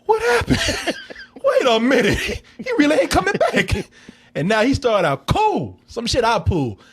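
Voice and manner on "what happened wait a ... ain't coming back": mock dazed girlfriend. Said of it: "before she was like".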